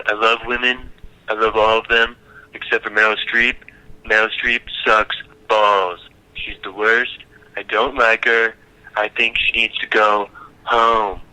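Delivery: lightly voiced politician impression; Donald Trump. Shown as a demonstration. Politician answers a question on the women's march, light impression. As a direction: answer as a mock president, drawing out line ends. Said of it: "that's my Donald Trump impression".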